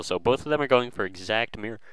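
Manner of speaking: talking right after eating; mouth full. Real, not acted. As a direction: food still in the mouth. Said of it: "I kinda just ate".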